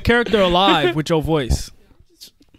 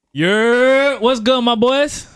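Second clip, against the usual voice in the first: put-on New York accent; much slower than usual. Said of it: "All right, I'll start".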